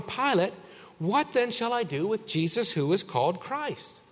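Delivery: a hint of a puzzled governor; voicing Pilate. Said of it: "you see it in verse twenty-one".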